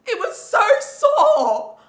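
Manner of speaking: exasperated. Real, not acted. Recalling painful breastfeeding.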